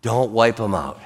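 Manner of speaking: low, softened acted plea; Moses. Prophet begging God to spare the people, subdued pleading. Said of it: "Moses is like".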